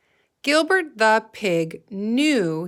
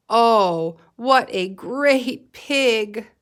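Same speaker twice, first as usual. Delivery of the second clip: slow, loud, delighted compliment; lots of feeling; 2 semitones higher, 5 dB louder, much slower than usual. Shown as a demonstration. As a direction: gush over the pig for the class. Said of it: "we should sound like we have a lot of feeling".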